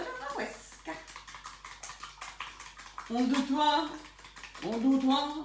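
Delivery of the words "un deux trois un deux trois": French counting. Pretend. Counts in French while whisking.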